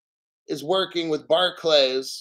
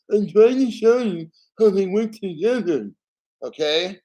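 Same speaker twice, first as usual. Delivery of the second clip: exasperated insistence; 3 semitones higher, 4 dB louder than usual. Real, not acted. Insisting they work together.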